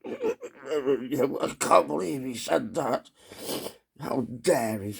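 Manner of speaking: mock-appalled celebrity reaction, drawn out; Tom Hanks. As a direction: splutter in slow, pretend disbelief. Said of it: "Tom Hanks, like".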